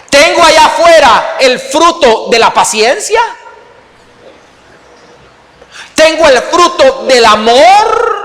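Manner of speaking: loud, rising preacher's cry; preaching shout. Real, not acted. Pastor to congregation, loudly preaching the fruits. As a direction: proclaim it to the back row.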